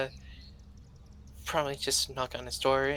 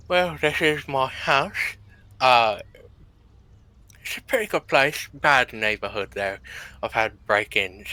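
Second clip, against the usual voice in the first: put-on hard-to-follow British accent; thick put-on British accent, loud at first; 5 dB louder than usual. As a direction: play the British host showing guests around. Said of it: "Maybe it's the British accent".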